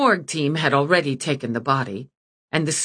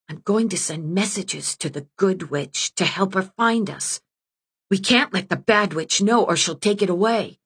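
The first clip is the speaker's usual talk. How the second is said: a hint of a small girl's voice, a bit higher; lightly voiced little girl; 4 semitones higher than usual. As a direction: read it like a secretive little girl. Girl voice Gala whispering to brother.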